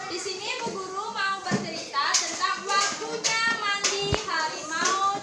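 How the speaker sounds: suara bercerita untuk anak-anak, lembut dan hidup; membacakan cerita anak. Acted. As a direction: bacakan dongeng dengan penuh ekspresi. Reading a story to children. (mendongeng untuk anak usia dini)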